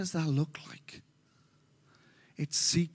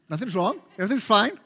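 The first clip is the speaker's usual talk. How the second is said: frantic denial; 3 semitones higher, 5 dB louder, faster than usual. Shown as a demonstration. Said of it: "Okay, really frantic, insecure, neurotic".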